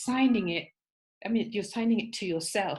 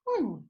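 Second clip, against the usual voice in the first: sad little sigh-sob of an oh; deflated oh; 3 semitones higher than usual. Retold or imitated. Enthusiasm sinks after friend's criticism, a deflated sobbing oh. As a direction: let the air go out of you. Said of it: "your enthusiasm for that project goes".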